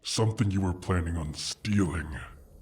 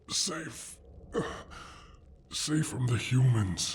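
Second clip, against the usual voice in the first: pitch; 8 semitones higher than usual. Acted. Dragon savoring its safety.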